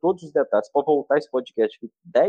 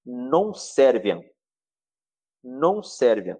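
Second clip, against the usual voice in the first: brado de Satanás, lento; 2 semitones lower, much slower than usual. Retold or imitated. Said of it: "é como se Satanás falasse assim".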